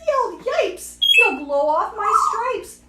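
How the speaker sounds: startled zebra yelp; yelping alarm. A narrator's reading. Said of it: "The zebra yiped".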